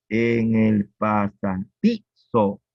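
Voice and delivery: en el pasa-DI-zo, slow with di stressed; slow syllable-stress demo. Shown as a demonstration. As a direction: lean on the syllable di in "pasadizo". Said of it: "en di está el acento".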